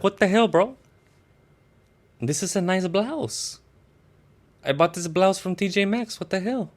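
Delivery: high-pitched, hammed-up complaint; mock indignant protest. Nacho protesting about his blouse.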